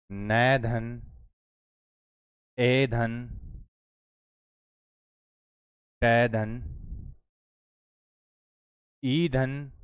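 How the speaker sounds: each syllable sounded separately with long pauses; sounding out syllables. Shown as a demonstration. Teacher sounding out syllables while writing on the panel. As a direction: spell out the sounds one by one. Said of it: "तो इसको मैं लिख सकता हूँ".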